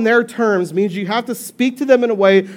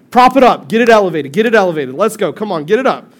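brisk, louder coaching voice; mock physio urging you on; imitating a pushy therapist; 4 dB louder than usual. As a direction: bark it like an eager rehab coach. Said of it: "what do they tell you?".

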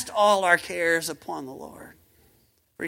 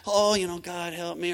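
half-hearted prayer; 3 semitones lower, 5 dB quieter than usual. Retold or imitated. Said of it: "sometimes we kinda".

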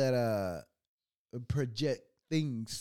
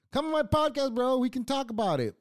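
sarcastic invite; 10 semitones higher, 6 dB louder than usual. Retold or imitated.

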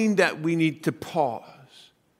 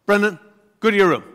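firm, louder sending to room; stern mother's order; 4 semitones higher, 5 dB louder, faster than usual. Retold or imitated. Mother sending Brendan to his room, firm. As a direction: order the kid off like a mom. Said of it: "And then if I didn't stop".

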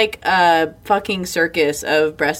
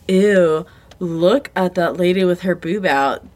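disgusted sneer; slower than usual. Retold or imitated. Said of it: "friends or relatives being like".

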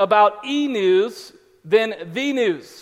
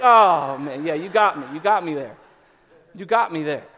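sheepish concession; 4 semitones lower than usual. Retold or imitated. Dad caught out by his daughter, sheepishly conceding. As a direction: give in, mock defeated.

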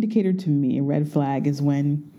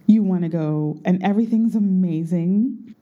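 ordinary talk

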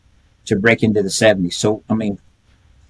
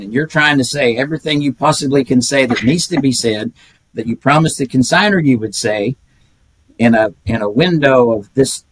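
normal talking voice

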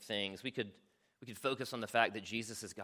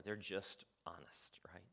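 whisper; 4 semitones lower, 11 dB quieter, slower than usual. Real, not acted. Quiet aside on desperate people.

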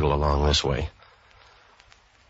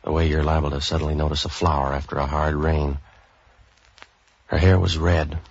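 hard-boiled narration; 2 semitones lower than usual. A narrator's reading. Detective narrating his case to the listener, dry noir narration. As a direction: tell it like a tired private eye looking back.

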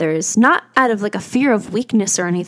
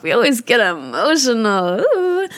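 getting emotional; 2 semitones higher than usual. Real, not acted. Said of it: "I don't wanna get emotional".

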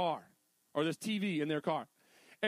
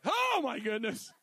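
laughing surprise; 3 semitones higher, 4 dB louder than usual. Retold or imitated. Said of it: "They're like".

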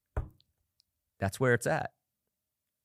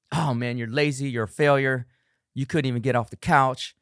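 harsh self-talk; 3 semitones higher, 4 dB louder than usual. Pretend. Self-critic after the first missed workout, mock scolding. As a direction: tear into yourself. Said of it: "you're saying all these things to yourself".

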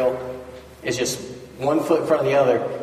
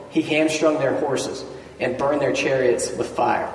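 measured Bible reading to the congregation; scripture reading. Acted. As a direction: lay the verses out steadily, like a lectern reading. Reads scripture aloud.

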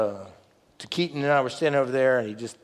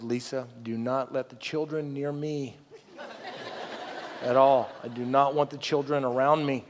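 low, measured plea for solitude; retold weary insistence, kept low; firm, deadpan order; 3 semitones lower, 7 dB quieter than usual. Exhausted camper telling his wife to keep children away, deadpan order.

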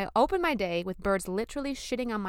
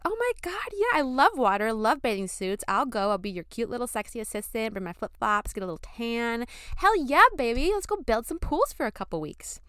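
overeager; 3 semitones higher, 4 dB louder than usual. Retold or imitated. Daydreaming girlfriend gushing to her boyfriend about the job, overeager squeals. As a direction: gush like you can't wait to go.

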